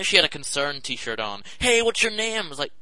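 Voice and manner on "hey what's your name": gushing fundraiser. Retold or imitated. Overeager street charity woman.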